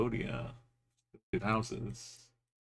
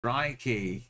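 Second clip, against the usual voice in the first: higher-pitched, punchy exclamation; exclaimed; 4 semitones higher, 4 dB louder than usual. Real, not acted. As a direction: call it out, pitch up then falling. Exclaims during geography game.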